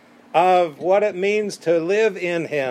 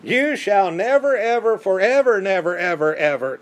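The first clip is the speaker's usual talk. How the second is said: Peter's protest; 2 semitones higher than usual. Retold or imitated. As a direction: blurt out a refusal, then wind down. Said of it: "and he's like".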